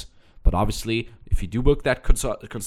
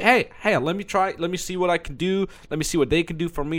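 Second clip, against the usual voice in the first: curious listener voice; 8 semitones higher than usual. Retold or imitated. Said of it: "You know, just to".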